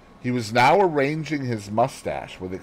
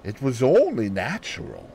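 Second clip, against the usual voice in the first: thoughtfully; 2 semitones higher than usual. Acted. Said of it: "said Poirot thoughtfully".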